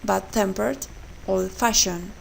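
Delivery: "bad-tempered", "old-fashioned", second part strong; stress on second part. Shown as a demonstration. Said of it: "The stress on the second part".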